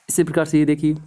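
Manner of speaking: whisper. Real, not acted. Sudden aside to class.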